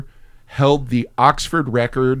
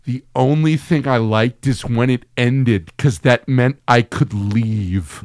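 deadpan put-down; 3 semitones lower, slower than usual. Retold or imitated. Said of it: "I looked at him and I went".

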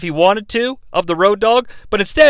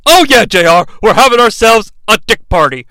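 louder hyped announcer voice; mock commentator; 3 semitones higher, 4 dB louder than usual. Lightly imitating Shane calling to J R. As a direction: play a cheesy announcer lightly. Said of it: "voicing commentator Shane".

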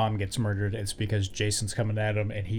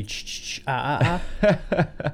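rhythmic hushed "ch-ch-ch", then voiced "ah"s; imitated Jason's whispers; 2 semitones higher, much slower than usual. Guessing for co-host at Jason's whispers, playful imitation. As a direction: mimic the slasher's echoing sound motif, ending amused. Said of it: "what Jason's whispers would sound like".

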